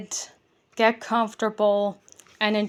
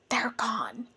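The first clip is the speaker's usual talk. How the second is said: croaking; 7 dB quieter than usual. Acted. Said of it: "Bertram croaked".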